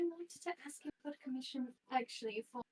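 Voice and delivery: whispered, so Honey Bear can't hear. Acted. Hiding a gift request from Honey Bear, whispered. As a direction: breathe it out as a secret.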